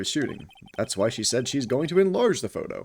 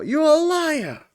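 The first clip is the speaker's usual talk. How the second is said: much higher, slow drawn-out cry; mock accusation; 5 dB louder, much slower than usual. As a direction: drag it out like a cartoon accuser.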